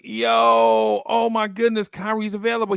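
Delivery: high, thrilled "oh my goodness"; mock-giddy joy at the news; excited realization. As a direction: play the dawning delight of a surprise gift. Acting delighted realization.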